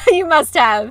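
laughing loud and high. Real, not acted. Laughing at her cohost's joke about paying the cat, loud and high. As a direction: laugh through the words.

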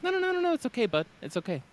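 high, soothing mock-gentle voice; calm them down like a child; imitating Joey. Mimicking Joey scheduling a meeting, high and soothing. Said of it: "He'd be like".

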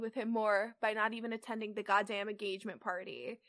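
even, measured read-aloud; story narration. A narrator's reading. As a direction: read the fanfic out steadily. Reads the fanfic aloud.

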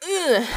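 high-pitched groan of discomfort; disgusted ugh. Real, not acted. Podcaster reacts to creepy mimicking spirit, disgusted groan. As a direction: let out an uneasy "ugh".

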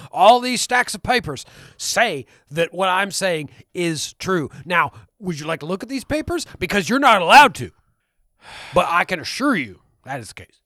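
a lightly voiced conspiracy radio host, insistent and pushy; lightly voiced ranting conspiracy host; conspiracy ranter. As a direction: rant like a paranoid talk show host. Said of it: "you're changing shape".

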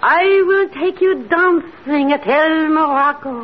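hypnotic command. Acted. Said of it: "Now repeat after me".

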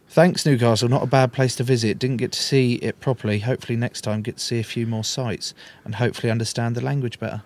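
lightly put-on Australian accent. Podcaster reading a player's tweet aloud, mock Australian accent. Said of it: "I can only do Australian".

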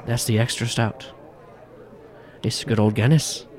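lightly voiced Irish barman; mild Irish brogue; Irish bartender. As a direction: present the pint with a hint of Irish. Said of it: "this strong-built Irishman".

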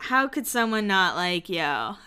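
slow imitation of smooth flattery; laying it on thick. Spencer sweet-talking Audrina, mock laying it on thick. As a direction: draw it out like mock sweet-talk. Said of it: "Spencer's laying it on thick".

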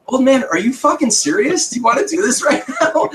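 high-pitched mock outrage; retold angry challenge. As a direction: replay an incredulous challenge, breaking into a laugh. Retold confrontation after being shoved.

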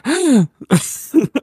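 sharp, high gasp of shock; cat's sharp gasp. Retold or imitated. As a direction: gasp like a startled cat. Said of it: "Luna's like".

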